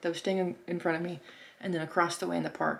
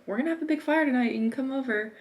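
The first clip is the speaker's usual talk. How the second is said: put-on eager kids; 7 semitones higher, 5 dB louder, faster than usual. Kids inviting her to fire.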